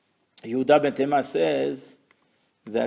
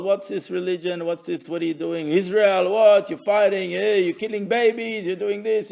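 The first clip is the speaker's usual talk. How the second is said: accusing outsiders; 4 semitones higher than usual. Acted. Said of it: "Or other nations of the world".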